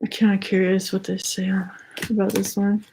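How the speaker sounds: slightly winded while talking; a little breathless, catching air between words; out of breath. Real, not acted. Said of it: "I don't know why I'm out of breath".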